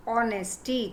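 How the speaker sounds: "ऑनेस्टी" starting on the vowel, no H; silent H. Shown as a demonstration. Teacher showing the class silent H, "ऑनेस्टी" without H. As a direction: open "ऑनेस्टी" straight on the O sound. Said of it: "तो एच नहीं बोलते".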